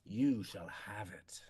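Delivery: low breathy whispered vow; low, slow whisper of ancient power; whispered promise. Acted. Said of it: "his voice echoes with ancient power".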